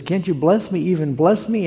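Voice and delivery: mildly acted high plea; crying out. Sorry son begging his father for a blessing, retold plea. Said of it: "and he's crying out".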